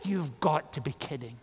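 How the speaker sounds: dropping into dismissive disbelief; acted-out scoff. Nathanael scoffing at the news.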